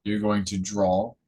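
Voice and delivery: calm, measured phrases with long pauses; guided meditation. Real, not acted. Teacher leading listeners to focus on the root chakra, guided meditation. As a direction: guide their attention gently, phrase by phrase.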